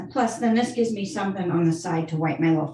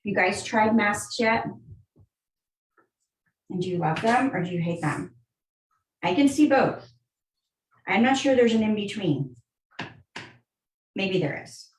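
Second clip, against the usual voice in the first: shaky voice; 2 semitones higher than usual. Real, not acted. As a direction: voice jostled by scrubbing. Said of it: "sorry about the shaking".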